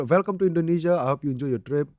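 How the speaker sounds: light, unexaggerated Indian accent; casual, toned-down Indian English; restrained Indian accent. Shown as a demonstration. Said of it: "nggak lebay aja".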